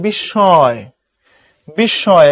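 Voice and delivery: "বিস্ময়" said bish-shõy, last syllable drawn out; সঠিক উচ্চারণ. Shown as a demonstration. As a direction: say "বিস্ময়" with a double sh. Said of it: "উচ্চারণ হচ্ছে". ("বিস্ময়" শ-ধ্বনি দিয়ে, শেষটা টেনে)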